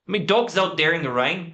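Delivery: Irish guy: "mi dog's out there"; Irish accent. Shown as a demonstration. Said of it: "how would the Irish guy say".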